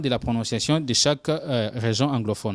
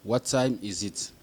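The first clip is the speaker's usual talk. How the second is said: slow repeat; 4 semitones lower, 5 dB quieter, slower than usual. Shown as a demonstration.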